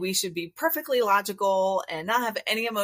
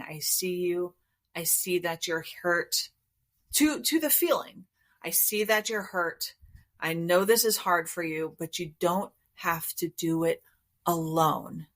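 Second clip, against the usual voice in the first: gentle soothing. Retold or imitated. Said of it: "showing up without judgment and saying".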